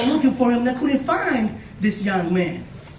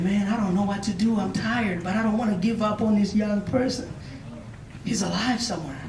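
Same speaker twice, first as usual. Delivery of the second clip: lightly acted weary grandpa, softer; tired; 2 semitones lower, 6 dB quieter than usual. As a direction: speak softly, as if worn down. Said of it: "you know, got tired".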